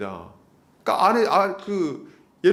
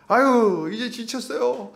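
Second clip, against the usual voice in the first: high, whining grumble of a tired churchgoer; higher-pitched mock whining about too much church work; whiny complaining; 8 semitones higher than usual. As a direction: moan it all out in a higher whine, sighing. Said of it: "막 불평불만을 하는 거예요".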